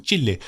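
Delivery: "Chile" said the Spanish way as CHEE-leh; "Chile" with an "eh" at the end. Shown as a demonstration. Offers the viewers the Spanish-sounding version. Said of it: "You, you enjoy the accent".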